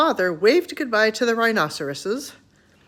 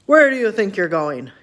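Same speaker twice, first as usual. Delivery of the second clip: lion demanding; 7 dB louder than usual. A narrator's reading. Lion confronting the father.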